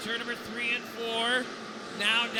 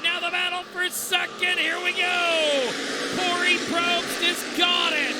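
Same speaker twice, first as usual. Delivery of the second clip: excited; 6 semitones higher than usual. Real, not acted. Race battle for second place.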